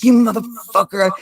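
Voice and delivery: sudden high sing-song yell at nobody; mimicked outburst. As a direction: blurt it out like a voice in your head is taunting you. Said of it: "this guy's like".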